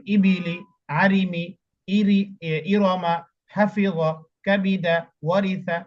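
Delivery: joined words read without spelling, ইরমা and কাবিদা drawn out; whole words read smoothly. Shown as a demonstration. Teacher shows how to read the joined words after spelling. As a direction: read each word whole, slowly, ইবিলি then আরিমি. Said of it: "একবার পড়লেন এবং তারপরে এভাবে পড়বেন".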